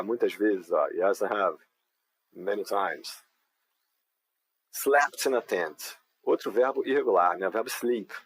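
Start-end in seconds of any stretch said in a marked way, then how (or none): 4.7-6.0 slow dictation. Shown as a demonstration. Teacher dictating the next prompt very slowly. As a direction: say "Seen the sunrise" very slowly and clearly. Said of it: "teacher dictates next prompt".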